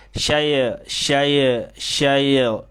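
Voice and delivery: bukan syai- yang ya sukunnya kabur; sukun ngambang. Shown as a demonstration. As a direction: ulangi syai- yang salah. (contoh bacaan yang keliru)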